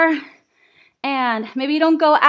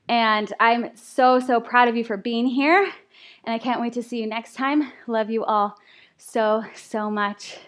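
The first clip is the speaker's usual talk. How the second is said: sincere; 4 semitones lower, 4 dB quieter than usual. Real, not acted. Thanks class after workout.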